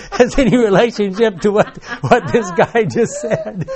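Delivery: high, loud, through laughter; delighted punchline. Retold or imitated. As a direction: belt out the punchline over the laughs. Punchline of story amid laughter.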